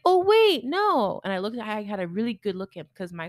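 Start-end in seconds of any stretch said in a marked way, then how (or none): 0.0-1.2 high, louder "oh, wait, no" as it dawns; sudden realisation. Retold or imitated. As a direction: catch yourself mid-thought, higher.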